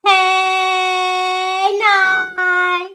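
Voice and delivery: loud, high happy hello; excited greeting. Real, not acted. Host cheerfully greeting her late-arriving co-host. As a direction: greet her like a long-lost friend.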